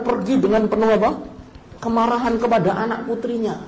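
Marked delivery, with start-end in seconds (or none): none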